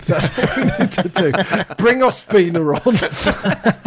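chuckling through the words; laughing. Real, not acted. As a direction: laugh while you say it. Joking about conceding goals.

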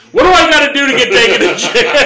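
high, laughing disbelief; laughing, incredulous. Retold or imitated. Asking the cop how to get jailed, laughing high. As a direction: squeeze it out through laughs.

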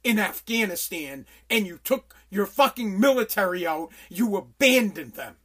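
slow, loud accusing voice; angry confrontation. Retold or imitated. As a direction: lean in and blame each word. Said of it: "and say".

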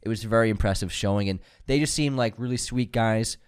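stuffy cold nose; nasal voice. Real, not acted. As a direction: speak through a blocked nose. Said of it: "You sound so nasally right now".

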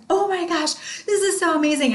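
high, gushing sales pitch; imitating her over-the-top younger self; gangbusters excitement. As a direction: burst in like an over-eager salesgirl. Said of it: "I come in there like gangbusters".

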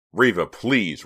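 snapping. A narrator's reading. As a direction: cut in, exasperated. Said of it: "Rawson snapped".

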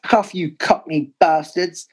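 mock shout at rival fans; retold fan's shout. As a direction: imitate a jeering away fan shouting abuse. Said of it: "shouting out".

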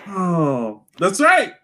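normal talking voice

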